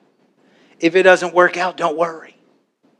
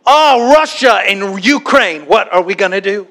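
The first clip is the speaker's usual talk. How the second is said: mock worried bird; 2 semitones higher than usual. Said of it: "a bird flipping through the newspaper and going".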